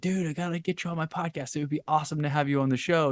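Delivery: high, called-out screaming voice. Retelling how he yelled to a man over loud music: retelling a scream over music. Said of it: "And I'm screaming at him".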